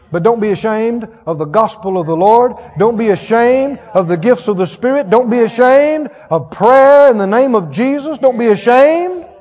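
rising, building preacher's refrain; preaching at full force. Real, not acted. Preacher urging the congregation, building refrain. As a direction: drive each line harder toward the last.

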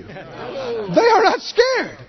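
very high, slow exclamation; exclaimed. Real, not acted. Preacher scoffing at the idea of fear, high and drawn out. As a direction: fling it up high in disbelief.

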